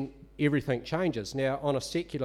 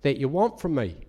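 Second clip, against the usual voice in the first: called out loud, a little higher; raised voice asking what they want; 4 semitones higher, 7 dB louder than usual. Retold or imitated. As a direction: ask it out loud across the room. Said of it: "I said in a loud voice".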